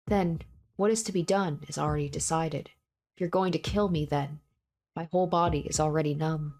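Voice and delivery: a hint of dread in a doomed young man; lightly voiced frightened hero. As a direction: read the hero's inner terror with understated fear. Reading a visual novel monologue.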